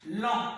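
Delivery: "talon" with "ta" held, then "lon" apart; one voice burst per syllable. Shown as a demonstration. Teacher demonstrating the voice bursts, "talon" syllable by syllable. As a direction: split "talon" into two drawn-out syllables. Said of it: "coup de voix".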